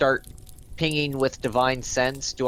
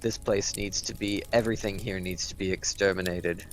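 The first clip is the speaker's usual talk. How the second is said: lightly voiced solemn holy warrior, lower; grave paladin; 5 semitones lower, 4 dB quieter than usual. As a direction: give a measured, grim warning in character.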